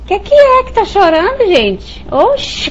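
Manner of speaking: high, loud scolding jab at a crying husband; annoyed wife. Retold or imitated. Second wife scolding her husband for crying. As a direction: scoff at him for crying over TV. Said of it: "por ele e disse".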